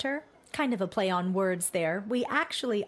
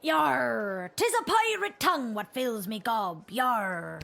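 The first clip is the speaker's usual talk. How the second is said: pirate voice; 2 semitones higher, slower than usual. Acted. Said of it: "it sounds like a bit".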